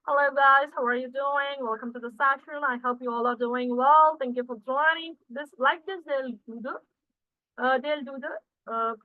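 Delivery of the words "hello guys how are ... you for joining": a lightly done American accent greeting the class. Shown as a demonstration. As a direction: imitate a smooth American host opening a session. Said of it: "convert it to the American".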